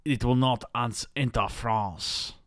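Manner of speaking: lightly put-on French accent, slow at the end; mock French accent; French guy. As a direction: play a French official, drawing out the last words. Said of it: "this French guy is like".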